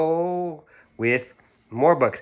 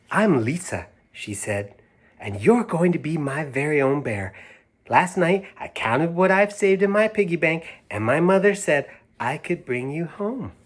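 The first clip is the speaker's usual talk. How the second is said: put-on little girl; 5 semitones higher than usual. Little girl voiced in story.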